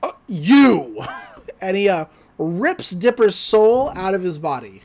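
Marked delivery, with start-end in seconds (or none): 0.0-1.0 teasing villain. Retold or imitated. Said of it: "He's like".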